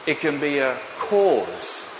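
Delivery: booming too loud into the mic; accidentally loud preaching. Real, not acted. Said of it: "too loud".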